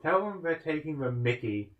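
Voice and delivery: a hint of British accent; mock British slang. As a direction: put on a British phrase. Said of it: "the most British thing".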